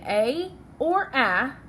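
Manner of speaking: first "A" long as ay, second "A" short as in cat; long and short vowel. Shown as a demonstration. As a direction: contrast "A or A" as ay or a short a. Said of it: "This does not say".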